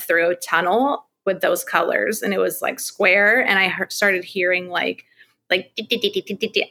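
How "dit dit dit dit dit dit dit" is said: soft rhythmic dit sounds; imitated beeping. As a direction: quietly mimic a strange ticking noise. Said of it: "it was a very strange sound".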